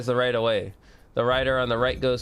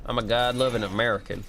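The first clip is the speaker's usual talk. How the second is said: put-on patriotic American accent. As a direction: play up a light American accent. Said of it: "I'm gonna do my American accent".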